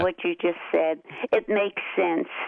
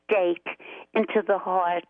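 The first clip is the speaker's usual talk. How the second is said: sarcastic. Pretend. Caller teasing the host about the Tea Party, sarcastic. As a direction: feign being hurt, with sarcastic pauses. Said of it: "I'm being sarcastic".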